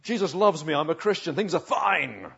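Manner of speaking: bright, put-on cheery Christian brushing it off; forced smile. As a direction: play the grinning Cheshire Cat hiding the hurt. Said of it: "you've got to keep on smiling".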